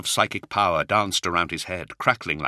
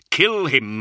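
urgent frightened command, pitched high and loud; 8 semitones higher, 6 dB louder than usual. A narrator's reading. Frightened knight urging his comrade to shoot the child, alarmed. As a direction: blurt it out in alarm. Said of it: "never heard him sound so frightened".

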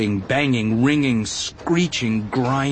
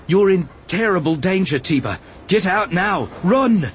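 raised, high-pitched alarm, building to a cry; urgent warning; 6 semitones higher than usual. A narrator's reading. Obi-Wan warning a villager to flee, urgent cry. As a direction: press the danger on them, climbing higher.

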